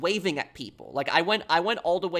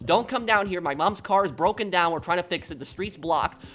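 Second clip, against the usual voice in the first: calling out; 3 semitones higher than usual. Retold or imitated. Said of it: "I was trying to wave cars".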